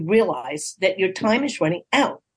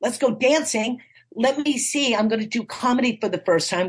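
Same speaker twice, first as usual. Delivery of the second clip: confident self-talk; 5 semitones higher than usual. Pretend. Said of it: "if you go".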